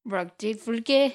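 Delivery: slow nonsense words with a Welsh lilt; slow, careful, vaguely Welsh gibberish; Welsh-sounding gibberish. Pretend. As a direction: mimic backwards speech, sounding a bit Welsh. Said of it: "Sounded a bit Welsh".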